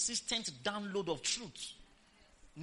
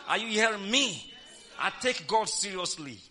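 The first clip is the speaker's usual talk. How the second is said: louder, punchy testimony; emphatic declaration; 5 dB louder than usual. Real, not acted. Preacher testifying to the congregation, loud and emphatic. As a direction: drive each line home with force. Preacher boasting of midnight prayer.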